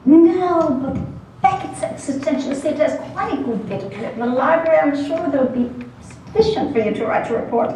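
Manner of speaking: crisp pseudo-British brush-off; a lightly faked British accent; pseudo-British professor. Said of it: "in his crisp, pseudo-British accent".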